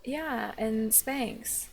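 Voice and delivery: mock casual denial. Critic mimicking vlogger's weight-loss excuse, mock casual. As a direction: imitate a vlogger brushing it off. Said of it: "And you're like".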